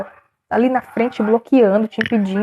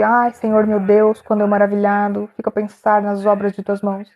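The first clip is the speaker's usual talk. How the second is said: mock recited prayer. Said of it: "não é aquela coisa decorada".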